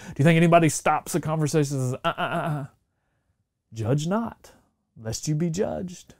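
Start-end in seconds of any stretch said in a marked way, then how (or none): 2.0-6.1 wag a finger while quoting the verse; prim mock reproach. Prim interruption quoting scripture.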